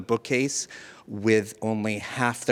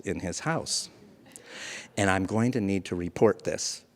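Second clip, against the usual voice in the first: lower, softer, grave official voice; stern social worker; 4 semitones lower, 3 dB quieter than usual. Retold or imitated. Social worker telling Mike she must report him, hushed grave voice. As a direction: deliver bad news with hushed gravity. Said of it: "she puts on her best, best voice".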